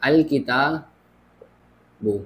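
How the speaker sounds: अल किताबु drawn out very slowly, each part separate; slow dictation. Shown as a demonstration. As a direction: spell out अल किताबु slowly for the class. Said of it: "अलहदा करके लिखता हूँ".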